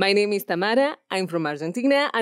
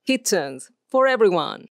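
kitchen ad read; 4 semitones higher than usual. Shown as a demonstration. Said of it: "These holidays at Milestone".

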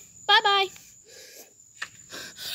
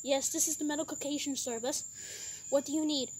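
lower, quicker call-centre operator voice; operator Jimmy; 6 semitones lower, 10 dB quieter than usual. Pretend. Medic service operator Jimmy answers the driver, low and brisk. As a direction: answer the phone like a calm service clerk.

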